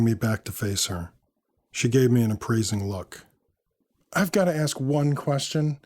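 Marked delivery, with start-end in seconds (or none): 4.1-5.8 much higher-pitched woman's voice; inquisitive woman. A narrator's reading. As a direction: press the question in her high voice. Narrator voices Samantha asking.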